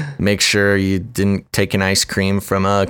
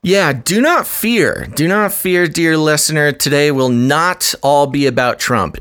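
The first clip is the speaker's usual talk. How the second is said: mock announcer; 5 semitones higher than usual. Mock announcer reassuring listeners.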